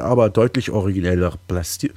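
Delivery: throat catching mid-word; frog in throat. Real, not acted. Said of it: "ich hab was im Hals".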